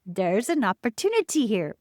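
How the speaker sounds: attempted Spanish accent, lightly done; half-hearted imitation of a mentor's Spanish-Parisian accent; Cynthia's accent. Quoting a mentor from Spain who lives in Paris, faint attempt at her Spanish accent. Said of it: "I wish I could emulate her accent, the way she says it".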